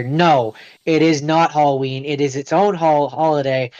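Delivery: deliberate, distinctly spoken correction; firmly distinct, stressing "not". Real, not acted. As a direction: set the record straight, word by word. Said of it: "very distinctly say here".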